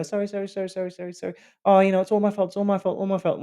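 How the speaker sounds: high, fast, pleading string of sorries; mock a father groveling to his son-in-law; imitating the apologetic dad. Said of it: "he would literally go".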